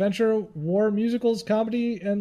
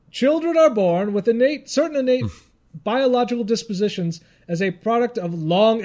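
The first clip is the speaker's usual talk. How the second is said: a hint of a pompous scholar reading aloud; mock pipe-smoking academic. Host reading psychology of children's films, mock scholarly. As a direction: lightly play the learned lecturer with a pipe. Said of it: "I need a pipe in order to say this properly".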